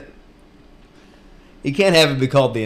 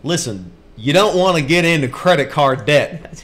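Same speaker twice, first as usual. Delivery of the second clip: lightly imitated advice-show host, a bit louder; Dave Ramsey; 3 semitones higher, 5 dB louder than usual. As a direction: lecture them like a radio money guru. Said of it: "That's Dave Ramsey".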